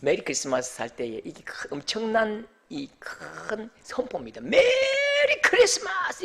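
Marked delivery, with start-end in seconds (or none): 4.4-6.2 high, drawn-out festive cry; loud proclamation. Acted. Preacher proclaiming Christmas to the congregation, high drawn-out shout. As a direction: proclaim it high, stretching out the vowels. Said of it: "크게 외치거든요".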